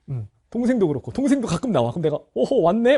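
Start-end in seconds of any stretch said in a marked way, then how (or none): 2.4-3.0 teasing jab. Retold or imitated. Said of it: "막 이렇게 해".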